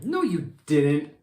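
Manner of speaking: snapping. Acted. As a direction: cut him down flat. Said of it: "snapped Sam".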